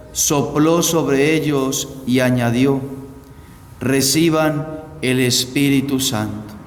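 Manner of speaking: measured liturgical reading voice; Gospel proclamation. Acted. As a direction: read the Gospel solemnly to the congregation.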